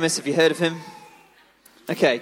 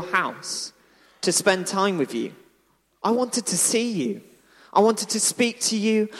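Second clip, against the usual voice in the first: gentle and tender. Acted. Jesus gently corrects Martha.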